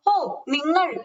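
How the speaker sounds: lightly acted hail across the yard; calling out. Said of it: "എന്ന് വിളിക്കുന്നു".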